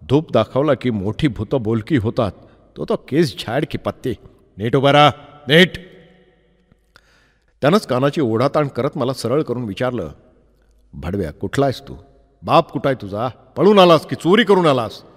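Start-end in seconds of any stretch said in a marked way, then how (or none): 0.1-5.7 stern policeman order. Retold or imitated. Policeman threatens the boy. 10.9-15.0 a cop whose grilling builds into yelling; angry policeman, building to a shout. Retold or imitated. Policeman interrogates and abuses.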